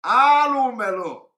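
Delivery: loud, high, drawn-out cry of Alumelo; imitated shout. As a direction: wail it out like he's being beaten. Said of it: "started shouting".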